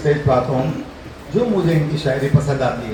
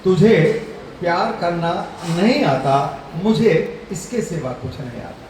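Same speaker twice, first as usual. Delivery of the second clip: shayari recital; 4 semitones higher than usual. Real, not acted. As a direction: recite a couplet, pausing before each phrase.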